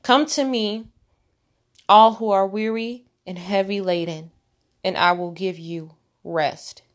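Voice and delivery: slow scripture quote with pauses between phrases; measured, deliberate verse reading; said slowly. Shown as a demonstration. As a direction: let each phrase sink in, unhurried. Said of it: "Let me say that slowly".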